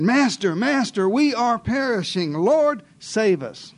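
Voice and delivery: mock panicked cry to a sleeping master; frightened disciple pleading for help; desperate plea. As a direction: call for rescue, slowing on the last words.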